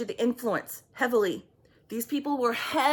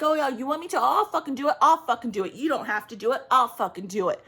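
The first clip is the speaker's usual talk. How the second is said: mock yell of an angry man, somewhat louder; lightly performed angry boyfriend yelling back; retold angry shouting; 3 dB louder, faster than usual. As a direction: act out his furious threats in a half-raised voice. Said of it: "and he's like".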